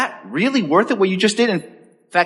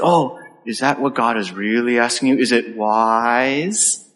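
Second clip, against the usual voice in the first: nefarious insinuation; 3 semitones lower, slower than usual. Retold or imitated. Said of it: "that sort of nefarious".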